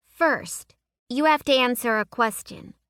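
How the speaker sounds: put-on high insistent young girl; a girl setting terms; little girl voice. A narrator's reading. Girl making a demand.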